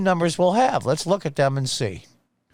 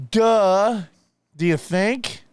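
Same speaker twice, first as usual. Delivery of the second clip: sarcastic duh; 6 semitones higher, much slower than usual. Real, not acted. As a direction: scoff at the obvious. Sarcastic reaction to the data.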